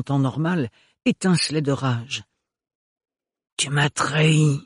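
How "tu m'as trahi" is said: slow, tight hiss; slow bitter hiss; hissed through teeth. Acted. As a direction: spit it through clenched teeth. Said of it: "siffla-t-il entre ses dents".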